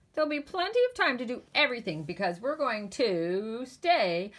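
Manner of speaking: rising to a loud, high "up all"; cheering. Acted. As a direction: cheer it, building excitement. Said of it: "cheered Jim and his siblings".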